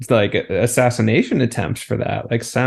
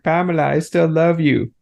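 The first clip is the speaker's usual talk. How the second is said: Borat; 4 semitones higher than usual. Retold or imitated. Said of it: "excuse my Borat impression".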